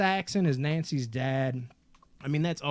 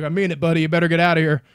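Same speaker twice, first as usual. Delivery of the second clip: tough-guy threat; 2 semitones higher, 8 dB louder, much faster than usual. Retold or imitated.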